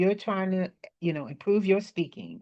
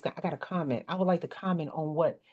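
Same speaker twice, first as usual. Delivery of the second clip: firm, steady break-in, said softer; self-assured panel interjection demo; confident; 6 dB quieter, faster than usual. Shown as a demonstration. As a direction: claim the floor without a stumble. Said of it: "The confidence".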